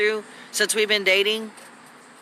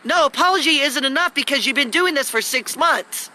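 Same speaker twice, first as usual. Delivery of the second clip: high, sharp refusal; exasperated retort; 6 semitones higher than usual. Real, not acted. Woman refuses her boyfriend's apology, high and fed up.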